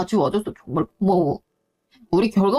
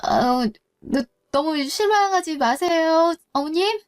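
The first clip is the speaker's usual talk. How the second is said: nervous; 3 semitones higher than usual. Acted. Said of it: "내가 너무 긴장한 탓에".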